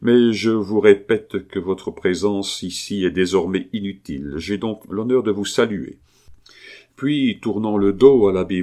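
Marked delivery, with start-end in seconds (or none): 0.0-6.0 no-reply firmness. Acted. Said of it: "d'un ton qui n'admettait pas de réplique".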